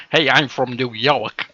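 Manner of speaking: slow, badly faked New York accent. Retelling a failed request for an accent, slow mock New York. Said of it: "Somebody asked me to do a New York one".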